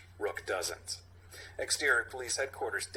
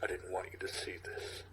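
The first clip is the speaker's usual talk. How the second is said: emotional; 5 semitones lower, 7 dB quieter than usual. Acted. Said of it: "Biting fist, emotional".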